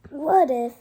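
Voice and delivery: loud, alarmed Gerald, the last line slow; a child playing a panicked elephant; worried elephant voice. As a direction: cry out the worry, then slow down at the end. Reads Gerald's worried lines.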